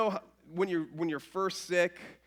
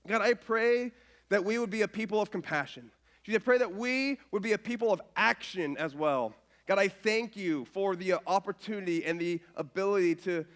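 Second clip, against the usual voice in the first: prayer; 3 semitones lower than usual. Acted. Prays over the offering.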